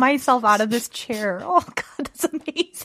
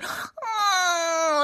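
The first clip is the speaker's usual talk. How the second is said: mock baby bawl; 7 semitones higher, 6 dB quieter than usual. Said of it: "They're just like".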